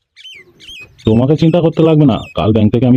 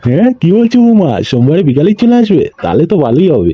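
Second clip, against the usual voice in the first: delighted surprise; 2 semitones higher than usual. Acted. Delighted the in-law is coming.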